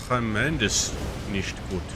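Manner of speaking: put-on, not entirely good German accent. Gamer narrating moves to foes and self, mock German accent. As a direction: play it with a hammy German accent. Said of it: "I don't know why I'm German".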